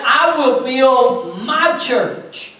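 slow, solemn quote of Jesus; a hint of Jesus speaking, slow and weighty. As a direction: let each word of the promise land slowly.

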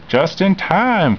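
cheering. A narrator's reading. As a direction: cheer that they made it just in time. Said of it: "Casey cheered".

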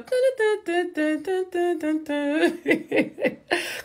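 high, festive da-da-da tune; giddy high vocal riff ending in laughter; wordless singing. Real, not acted. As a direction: trill a wordless Christmas tune.

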